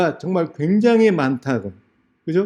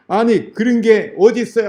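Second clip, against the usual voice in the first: higher-pitched retort, arguing back; indignant protest; 5 semitones higher than usual. Retold or imitated. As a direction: act out an outraged interviewee. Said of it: "하고 막 따지니까".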